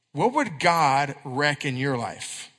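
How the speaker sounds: slow, low, searching question; slow earnest question. Acted. Pastor asking the youth a closing question, slow and earnest. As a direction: let it sink in gently.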